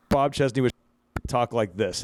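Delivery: chopped up by a bad mic; mic cutting out. Shown as a demonstration. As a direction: voice dropping in and out. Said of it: "just in and out".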